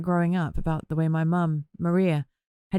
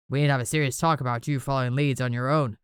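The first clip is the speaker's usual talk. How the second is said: firm; 5 semitones lower than usual. A narrator's reading. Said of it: "Bobby's voice was the firmest I'd ever heard".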